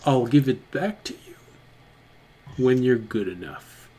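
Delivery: quiet, halting goblin giving grudging consent; reluctant goblin mentor. Acted. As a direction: agree softly, weighing it up as the goblin. Game master voices goblin as reluctant mentor.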